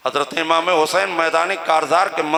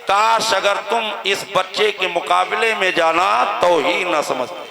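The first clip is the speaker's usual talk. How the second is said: taunting. Acted. Enemy commander mocks the father over his son, taunting. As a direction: let the jibe sink at the end. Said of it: "तंज करने लगा".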